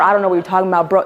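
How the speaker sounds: lightly voiced flat, emotionless dude; matter-of-fact bro voice. Shown as a demonstration. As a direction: say it with nothing behind it. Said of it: "speaking like this".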